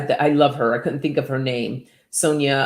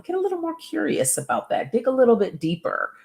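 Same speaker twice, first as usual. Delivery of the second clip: much higher and fast, coaxing; eager urging; 9 semitones higher, faster than usual. Real, not acted. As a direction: nudge them on with bright, quick energy. Urging viewers to dig deeper.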